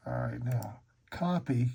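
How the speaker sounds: talking muffled behind hand. Real, not acted. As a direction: hand over mouth. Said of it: "Here I go with my hand over my mouth again".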